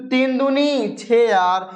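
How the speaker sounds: mock crying out. Teacher voices the formula calling out to students, mock crying out. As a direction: call it out slowly, as if the formula speaks. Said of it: "चिल्ला चिल्ला के बोल रहा है".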